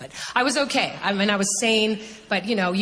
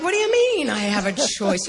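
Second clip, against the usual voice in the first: higher-pitched, incredulous retold question; astonished protest; 4 semitones higher, 4 dB louder than usual. Her retold answer to the Lord, astonished. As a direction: ask it in stunned disbelief.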